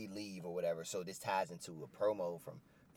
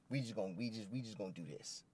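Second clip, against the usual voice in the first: whispered threat; 6 dB quieter than usual. Retold or imitated. Keith Lee voiced, whispered.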